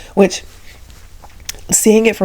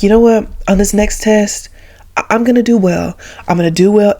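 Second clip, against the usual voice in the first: determined vow; 2 semitones higher than usual. Retold or imitated. Child vowing to study.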